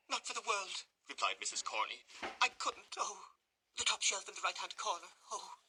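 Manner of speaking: high, fluttering faint lady; swooning matron. Acted. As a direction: gasp it out as if fainting.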